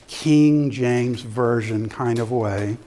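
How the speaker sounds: slow, stately scripture-reading delivery; King James reading. Shown as a demonstration. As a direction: draw it out with mild solemnity. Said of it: "we read it in a very".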